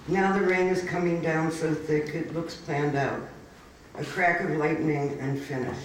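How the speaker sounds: measured, even poem reading voice; poetry reading. Acted. Reads next poem aloud.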